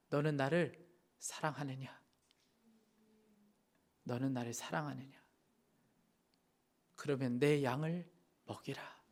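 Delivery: soft, low, hushed voice of the Lord; the Lord asking. Acted. Preacher voicing Jesus asking the congregation, soft and low. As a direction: ask it gently, as Jesus would.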